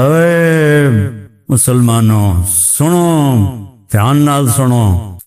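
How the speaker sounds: mock village cleric calling the crowd; a hint of a rustic preacher summoning the faithful. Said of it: "پھر کہتا". (دیہاتی مولوی کی نقل، مسلمانوں کو پکارتا ہوا)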